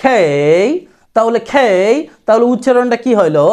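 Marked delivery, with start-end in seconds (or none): 0.0-0.6 "খেই" long, falling in pitch; vowel held two beats. Shown as a demonstration. Teacher likening it to Arabic alif, drawn-out খেই. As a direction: stretch the glide of "খেই" after puffed K. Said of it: "খেই দুই আলিফ টানবেন".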